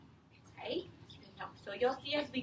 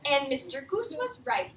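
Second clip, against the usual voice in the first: put-on reading to children. Teacher reading The Useful Moose to her class, lively read-aloud. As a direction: read it out to a class of young kids. Reads picture book to class.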